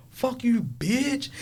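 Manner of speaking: imitating a small child cursing; little kid swearing. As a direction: squeak it out like a cheeky five-year-old. Five-year-old swearing, voiced high.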